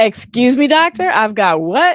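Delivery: very loud, drawn-out, high-pitched sassy attitude. Reading out the book title to the hosts, said with attitude. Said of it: "You gotta say it with attitude".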